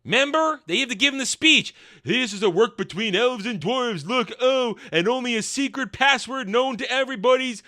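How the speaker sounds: high, loud, exclaiming parody voice; mock nostalgic cheerleader. Host mocking callbacks to the Doors of Durin, high, loud parody. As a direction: crow each callback high and punchy.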